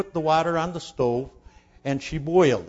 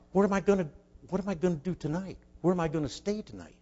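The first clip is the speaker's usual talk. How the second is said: retold worried thought; 4 semitones higher, faster than usual. Runaway boy's worried thought on train.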